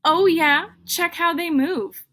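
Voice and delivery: loud, high oh yeah; excited. A narrator's reading. Teacher reading to kids, admiring the cool beans. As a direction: savour how cool they are.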